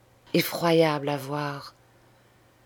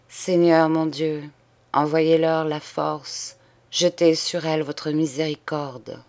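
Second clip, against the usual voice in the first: solemn prayer. Acted. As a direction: pray over the sisters, measured. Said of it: "il prononça". (prière lente et solennelle)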